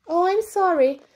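out of breath, apologizing; panting from running. A narrator's reading.

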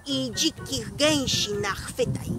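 stern devil's warning, rising at the threat; devil scolding. Acted. (diablik surowo ostrzega lisa)

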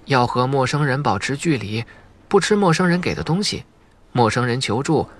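mock-adult child voice, a touch fed up at the end; kid mimicking grown-ups. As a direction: recite the rules like a bored kid playing grown-up. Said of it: "下意识地模仿起了成年人的语气".

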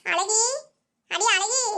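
insistent call, lifting at the end. Acted. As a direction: call for a friend who hasn't answered. Calls again as nobody answers.

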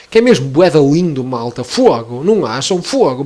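slipping into a Porto accent; northern Portuguese accent from Porto. Real, not acted. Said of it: "fiquei agora com o nosso sotaque". (sotaque do Porto que sai do nada)

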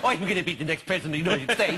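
mock Irish speech-making; comic Irish version of a politician; Irish accent. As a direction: put on a jokey Irish accent through laughter. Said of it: "Even his actual speech sounded Irish".

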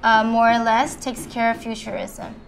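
measured poetry recital, phrase by phrase; recited love poem with lifted line openings; poem reading. Acted. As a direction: read the poem aloud to listeners, pausing between lines.

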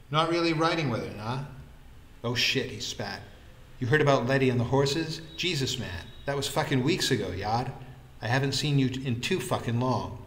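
a hint of Vikram's brash, chatty manner; lightly voiced lively friend. Vikram greets his friend about Letty, brash and chatty.

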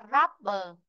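"rubber" with RUB stressed, falling after it; stress on first syllable. Shown as a demonstration. Teacher sums up the rule, first syllable stressed. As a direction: hit "rub", leave "ber" weak. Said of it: "rồi rơi vị trí thứ nhất".

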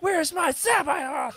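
high, slow whining fan; whiny fan voice. Retold or imitated. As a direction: wail it like a disappointed fan. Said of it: "people were like".

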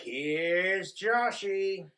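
drawn-out, slow announcing call; mock catchphrase. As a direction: stretch it out like a playful entrance line. Imitating a film catchphrase on toilet.

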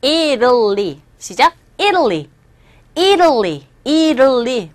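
"Italy" with a quick flapped t, like "Iduh-lee"; native pronunciation of Italy. Shown as a demonstration. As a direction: say "Italy" as a native speaker would, first syllable stressed. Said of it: "원어민 입에서 나오는 정확한 발음은".

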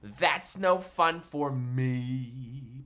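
low, slow pouting whine; mock pout. Entertainer pouts for the kids over the gift, mock sulk. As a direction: sulk like a kid.

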